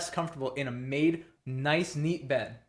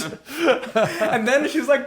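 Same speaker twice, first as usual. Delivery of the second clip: high, louder laughing words; 12 semitones higher, 9 dB louder, much slower than usual. Real, not acted. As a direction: crack up mid-sentence. Cracking up at Julia story.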